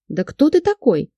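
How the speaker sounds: high, loud squeal of a question; shriek. A narrator's reading. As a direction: shriek it in alarm. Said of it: "взвизгнула я".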